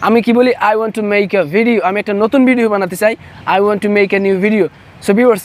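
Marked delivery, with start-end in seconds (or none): 0.5-1.8 slow careful "I want to make a video" with every word separate; careful full-form demo. Shown as a demonstration. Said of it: "এরকম না বলে আমরা". 3.5-4.7 slow, deliberate "I want to make a new video", each word clear; full form said slowly. Shown as a demonstration. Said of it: "এরকম না বলে আমরা".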